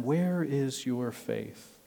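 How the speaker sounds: "Where is your faith?" slow and soft, a quiet searching question; Jesus quietly asking his disciples, a slow soft rebuke; gentle rebuke. Acted. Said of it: "I'm gonna focus on that question".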